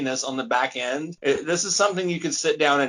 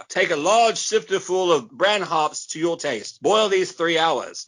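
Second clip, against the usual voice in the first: put-on reading an old recipe; slower than usual.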